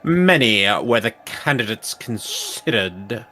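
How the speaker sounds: slow, grand quest-giver voice; solemn NPC voice. Acted. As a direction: read it like a solemn sage. Reads NPC dialogue aloud.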